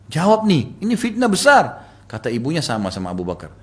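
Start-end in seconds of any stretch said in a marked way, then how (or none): 0.1-1.8 high, loud retold plea; urgent demand. Accused daughter pressing her mother to answer, urgent.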